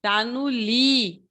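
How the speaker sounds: "Tá no li" with "li" slowly drawn out; stress on LI. Shown as a demonstration. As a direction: stretch and lean on "li" in "Tá no li". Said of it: "Onde está a sílaba forte?". ("Tá no li" com o "li" forte e alongado)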